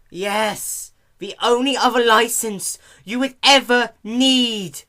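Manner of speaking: high, loud snappy retort; loud irritated retort. Acted. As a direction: snap back at the clerk. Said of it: "Dash retorted".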